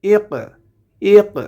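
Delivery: ইক with a bouncing echo on the ক; qalqalah echo. Shown as a demonstration. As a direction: stop on ক and let it rebound. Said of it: "কফটা কলকলার হরফ". (ইক শব্দে কফের কলকলা, পাল্টা আওয়াজ সহ)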